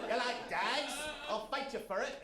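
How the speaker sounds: comic movie-character imitation; playful mock tough-guy challenge; funny voice. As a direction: do a silly quoted movie voice. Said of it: "in a funny voice".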